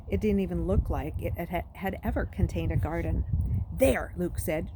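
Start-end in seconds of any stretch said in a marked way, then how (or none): 3.7-4.1 wronged and indignant. Acted. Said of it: "trying to sound wronged and indignant".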